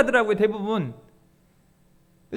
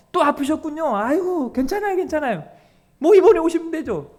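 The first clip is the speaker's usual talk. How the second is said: coddling pastor. Acted. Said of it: "우쭈쭈 우쭈쭈".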